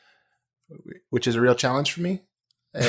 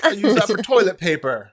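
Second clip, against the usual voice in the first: high, loud British chef tirade; mock-outraged English accent rant; Gordon Ramsay; 8 semitones higher, 3 dB louder than usual. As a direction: scold like a furious British TV chef, hammed up. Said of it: "the Gordon Ramsay style".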